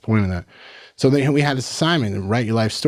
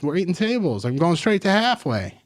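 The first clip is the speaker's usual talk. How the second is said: mock gym bro; 7 semitones higher than usual. Bro parody continues.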